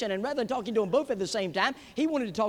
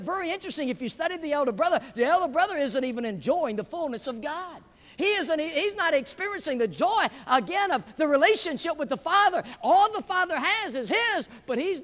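raised pitch, pressing pulpit delivery; impassioned preaching; 7 semitones higher, 5 dB louder than usual. Real, not acted. Preacher lamenting the elder brother's lost joy, impassioned preaching. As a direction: drive each phrase home to the pews.

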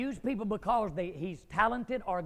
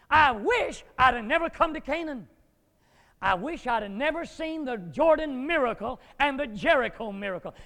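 whining regret; 5 semitones higher, 10 dB louder than usual. Acted. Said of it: "whining church member".

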